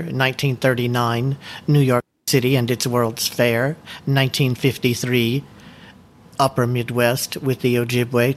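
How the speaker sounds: measured, deliberate presentation reading; steady formal delivery of a prepared script. Acted. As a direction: read it like a prepared talk to a book club. Reads prepared book presentation.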